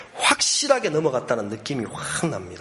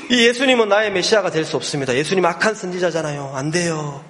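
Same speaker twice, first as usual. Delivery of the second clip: higher-pitched imitation of alarmed refusal; acted protest; 5 semitones higher than usual. Man refusing Jesus as his Messiah, acted protest. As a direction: protest firmly in a raised voice.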